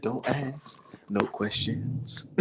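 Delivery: slow, drawn-out preacher quote; a mild take on the pastor, dragging every word; half-hearted pastor imitation, slow and soft; pastor's words. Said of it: "what the pastor say? He said".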